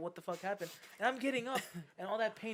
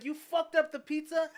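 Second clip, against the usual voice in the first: higher, louder mock accusation; angry customer; 8 semitones higher, 8 dB louder than usual. Mimicking the furious customer's accusation, half-laughing. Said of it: "he comes out, he's like".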